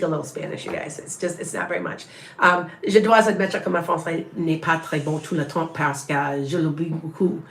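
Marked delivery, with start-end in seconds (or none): 2.9-7.4 French with an American accent; careful French of a learner; foreign accent in French. Shown as a demonstration. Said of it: "See, I speak fluent French".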